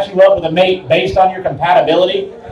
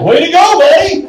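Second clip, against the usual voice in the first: excited cheer; 9 semitones higher than usual. Retold or imitated. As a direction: cheer him on with a laugh. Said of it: "I'm like".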